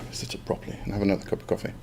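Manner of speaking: quick unvoiced whisper to herself; whispered aside. Real, not acted. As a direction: mutter it under your breath, fast.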